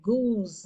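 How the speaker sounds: "goose" with the oo slightly drawn out; long-vowel "goose"; dragged long vowel. Shown as a demonstration. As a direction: hold the oo in "goose" a little. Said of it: "थोड़ा हम drag कर रहे हैं".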